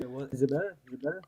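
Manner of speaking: muffled, echoing mic; inside a submarine. Real, not acted. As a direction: voice through a bad mic. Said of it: "make sure that the echo cancellation is off".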